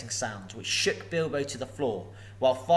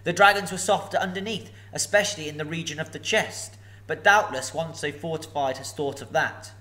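mild nervous squeak, higher at first; timid hobbit probing; frightened squeak; 4 semitones higher, 4 dB louder than usual. Acted. Bilbo probing the dragon, mildly frightened. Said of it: "in a frightened squeak".

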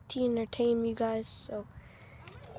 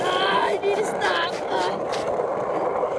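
sledding downhill; 7 semitones higher, slower than usual. Real, not acted. Riding fast down the hill.

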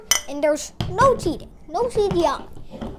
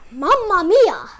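a slow, hammed-up Italian Mamma mia; mock Italian accent; 3 semitones higher, 7 dB louder, slower than usual. Teacher jokingly tries an Italian accent to the viewers, mock Italian. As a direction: try an Italian accent and fail. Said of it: "Can't mimic that accent".

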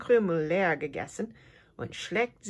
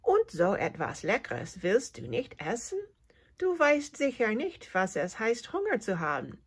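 astonished; 5 semitones higher than usual. Acted. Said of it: "fragt die Grille erstaunt".

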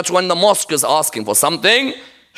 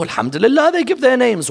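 lifted, emphatic approval; approving correction; 5 semitones higher than usual. Acted. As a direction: counter the critics by praising the donors.

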